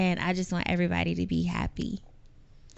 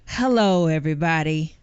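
strong announcer hello; 2 semitones lower, 3 dB louder than usual. Shown as a demonstration. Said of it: "your voice is a little bit stronger".

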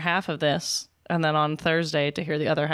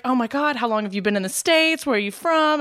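imitated Geordie woman, raised pitch; Geordie accent; 6 semitones higher than usual. Retelling a merch girl's questions, lightly imitated Geordie accent. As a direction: mimic an excited Geordie accent. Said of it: "She had a Geordie accent".

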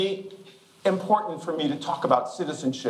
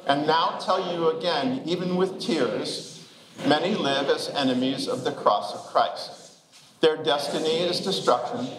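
measured, lower-pitched reading aloud; scripture reading; 3 semitones lower than usual. Real, not acted. Pastor leading the congregation in reading Paul's words aloud, measured scripture reading. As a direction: lead a group reading in even, deliberate phrases.

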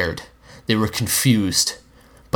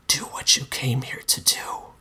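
a soft, breathy whisper, higher; monster whisper; 4 semitones higher, 4 dB quieter than usual. A narrator's reading. The Monster tempting the narrator in a soft whisper. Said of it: "Mister Monster whispered".

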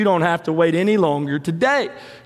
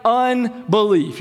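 slow pleading, pitched up; pleading cry; 5 semitones higher, much slower than usual. Retold or imitated. Father pleading with Jesus for his son, slow and higher. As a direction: beg with a slight lift. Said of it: "the father of the child cried out".

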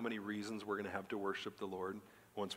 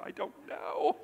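very high, squeaky tearful imitation; mock crying; 3 dB louder, slower than usual. Daughter answering her puzzled dad, high-pitched mock crying. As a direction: play a girl helplessly wailing, voice way up high. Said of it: "the next minute they're crying".

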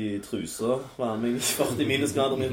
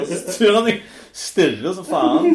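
dramatic stare; 6 semitones higher, 8 dB louder than usual. Retold or imitated. Acting out the staring moment.

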